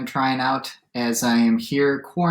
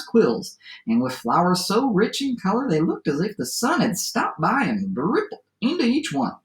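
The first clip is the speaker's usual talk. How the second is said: lively storyteller read-aloud with swooping pitch; story narration; 8 semitones higher than usual. A narrator's reading. Teacher reads a favorite adapted fairy tale aloud, lively storytelling. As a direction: read it to children as a tall tale.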